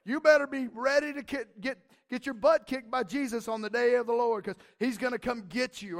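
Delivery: loud threatening mock preacher; hammed-up hellfire warning. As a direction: bellow it like a scare-sermon. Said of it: "white-knuckling in church".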